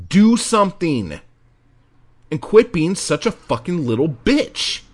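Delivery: high, loud, furious tough-love yelling; angry shouting. Real, not acted. Host yells at complaining writers to do something, furious. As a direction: yell it at them to get off their asses.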